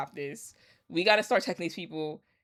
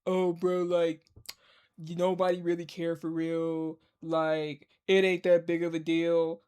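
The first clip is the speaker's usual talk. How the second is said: lowered, offhand mock of a dismissive guest; a mock shrugging dude voice; dismissive guy impression. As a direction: shrug it off like it's nothing. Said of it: "Maul sitting there like".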